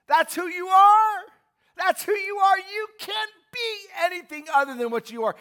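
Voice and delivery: loud, high, building sermon cry; ringing pulpit proclamation; full-force preaching. Acted. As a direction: preach it out to the back pews.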